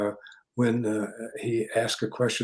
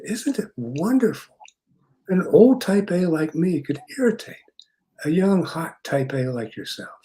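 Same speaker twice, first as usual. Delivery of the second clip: imitating slow speech; 5 semitones higher, 3 dB louder than usual. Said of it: "you speak so slowly".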